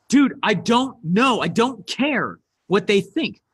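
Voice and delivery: slow, emphatic imitation of a blunt reply; mildly aggressive. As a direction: spell it out with a touch of aggression. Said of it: "texted back kind of aggressively".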